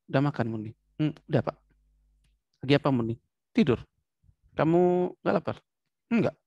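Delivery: short toneless question and answer; monotone. Shown as a demonstration. Teacher demonstrates a disturbed patient's replies, monotone. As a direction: speak it with little expression. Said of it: "Bicara monoton".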